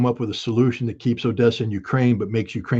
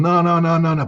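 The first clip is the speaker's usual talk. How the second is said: mock dismissive no; 5 semitones higher, 4 dB louder than usual. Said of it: "was going".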